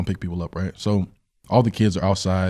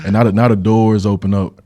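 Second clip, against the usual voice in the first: laughing while telling; 8 dB louder than usual. Real, not acted.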